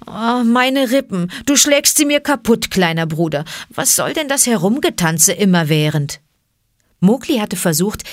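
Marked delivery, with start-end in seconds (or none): 0.0-6.2 pained, higher outcry over his ribs; loud protest. Acted. Panther protests loudly to Mowgli about his ribs. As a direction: yelp at the boy pounding his ribs. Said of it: "dann laut zu Mowgli".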